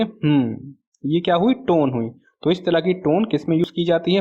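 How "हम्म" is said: wordless "hmm" standing in for yes; affirmative hum. Shown as a demonstration. Teacher showing students a paralinguistic cue, affirmative hum. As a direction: hum a yes using tone alone. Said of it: "अगर हम tone का use करें".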